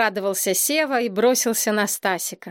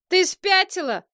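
yelling; 10 semitones higher than usual. A narrator's reading. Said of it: "заорал окончательно вышедший из себя Сева".

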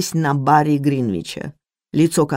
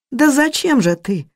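higher, drawn-out helpless question; bewildered drawl; 9 semitones higher than usual. Acted. Maid asks the cook why, high bewildered drawl. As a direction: at a loss, stretch it out. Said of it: "растерянно протянула Мэри".

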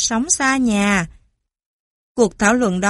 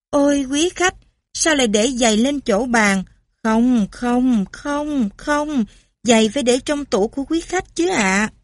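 flustered French maid; 2 semitones higher than usual. Acted. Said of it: "Hầu gái Pháp, thảng thốt".

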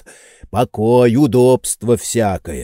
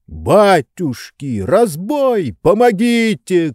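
slow start, then higher pleading yells; panicked cry for help; 7 semitones higher, slower than usual. A narrator's reading. Tarantyev crying for help from Oblomov, panicked high yell. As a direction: call out for help in alarm. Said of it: "кричал Тарантьев".

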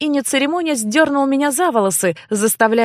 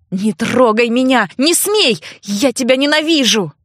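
angry yell. Acted. Sister shouts at brother holding her down, hateful. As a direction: spit out your hatred.

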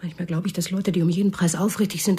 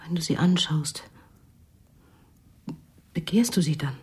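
whisper; 2 semitones lower than usual. Acted. Wife probing husband.

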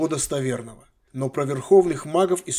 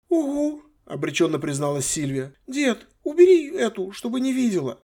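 put-on pleading girl; 8 semitones higher than usual. Granddaughter begging her grandfather not in front of others. Sylvia resigned.

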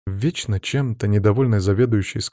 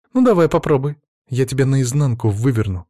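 threatening; 4 semitones higher, 4 dB louder than usual. Acted. Sofya threatens Pavel.

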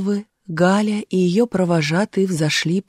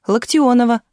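higher, lightly shouted name; calling out; 5 semitones higher, 4 dB louder than usual. A narrator's reading. Little girl tells the watchman her surname, crying out. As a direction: cry the name out, moderately raised. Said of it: "выкрикнула Галя".

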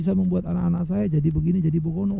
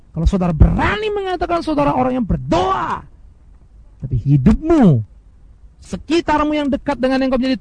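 preaching shout; 5 semitones higher than usual. Real, not acted. Warning those who claim to pray, a preaching shout. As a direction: call it out over the hall.

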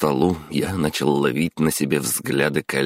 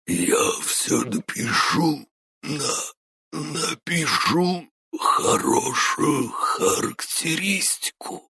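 much higher, slow, sobbing whisper; croaking in terror; 13 semitones higher, slower than usual. Acted. Boss at knifepoint promising a good reference, whispering and sobbing. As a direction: stammer it out, crying with fear. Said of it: "прохрипел он".

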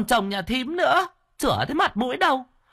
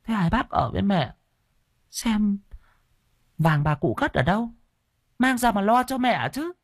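much higher, sharp insistent woman's voice; pry for the gold while pretending concern; sister-in-law pressing the family about the hidden gold; pointed demand; 12 semitones higher than usual. Greedy daughter-in-law asks for gold.

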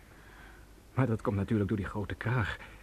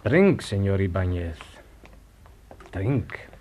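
louder insistent voice; menacing demand; 3 semitones higher, 5 dB louder than usual. Acted. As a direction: press him hard. Storyteller confronts Ibáñez loudly.

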